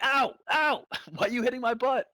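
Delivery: high, loud yelping puppy with a laugh in it; whiny hurt puppy. Pretend. Puppy yelps at owner smacking its butt, high and laughing. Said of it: "It's like".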